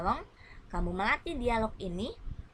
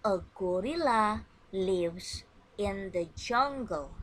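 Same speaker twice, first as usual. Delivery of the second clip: slow model sentence; slower than usual. Shown as a demonstration. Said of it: "Listen and repeat after me".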